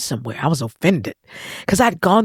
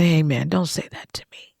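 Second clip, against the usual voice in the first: whispered plea; 3 dB quieter than usual. Retold or imitated. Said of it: "I said".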